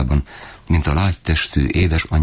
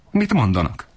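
shouting father; 7 semitones higher than usual. A narrator's reading. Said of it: "kiabált annál jobban".

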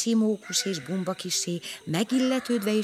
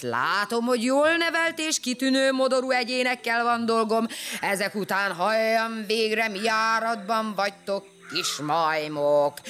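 elephant Kacifánt voice; 2 semitones higher than usual. Acted. Kacifánt the elephant calling the shy pair over, booming. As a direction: rumble like a friendly giant.

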